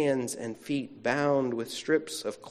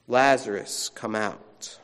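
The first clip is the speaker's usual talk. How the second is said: Jesus calmly calls Lazarus out after a deep breath; sighed calm call; 4 semitones lower than usual. Acted. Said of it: "Jesus' centering prayer".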